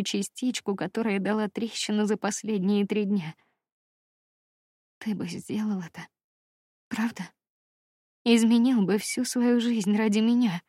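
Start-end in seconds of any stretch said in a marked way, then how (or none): 5.0-10.6 incredulous question. A narrator's reading. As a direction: ask him, hardly believing it.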